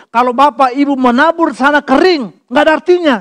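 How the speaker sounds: lightly mock the other pastor's pulpit pitch; preaching pastor. Preacher imitating a rival pastor warning the congregation, mock preachy. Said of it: "Dia bilang gini".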